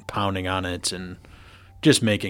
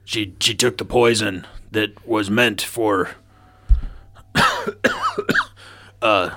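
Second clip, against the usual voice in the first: put-on drunk and gagging. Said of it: "it sounds like you're gagging on something. You're a little bit too drunk there".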